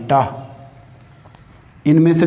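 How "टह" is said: टह said alone as a clipped t sound with a short breath after it; टह pronounced as a single teaching sound; isolated consonant sound. Shown as a demonstration. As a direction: sound out टह slowly for the pupils. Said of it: "ये टह की sound आ रही है".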